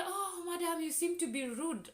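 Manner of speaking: lightly voiced official, condescending; mimicking officer. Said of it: "So they say".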